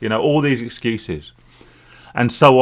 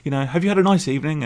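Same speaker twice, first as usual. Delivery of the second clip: higher-pitched, overly polite feigned sobriety; best sober voice; 9 semitones higher, faster than usual. Retold or imitated. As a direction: put on your best sober voice for the parents. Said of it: "putting on my best sober voice".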